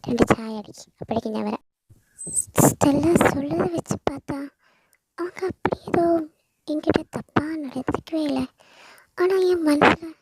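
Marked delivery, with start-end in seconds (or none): 2.7-10.1 lightly voiced worried young woman; a hint of Veda's unease, talking half to herself; uneasy Veda. Veda admitting her lingering fear to Stella, uneasy.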